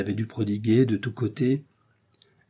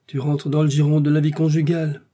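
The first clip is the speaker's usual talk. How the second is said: sarcastic; 5 semitones higher, 4 dB louder than usual. Acted. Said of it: "fit Meillant d'un ton sarcastique".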